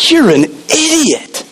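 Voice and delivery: scolding. Acted. Disciples scolding the woman.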